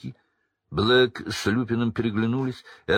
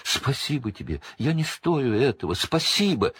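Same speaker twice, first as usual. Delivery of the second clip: grovelling Pettigrew; 6 semitones higher than usual. Acted.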